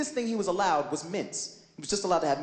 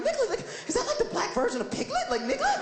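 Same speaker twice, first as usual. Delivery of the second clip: puzzled musing. Retold or imitated. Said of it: "I'm like".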